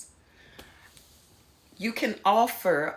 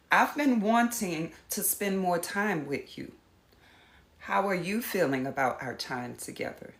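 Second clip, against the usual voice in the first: gentle invitation; 4 dB quieter than usual. Shown as a demonstration. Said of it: "As opposed to accusing".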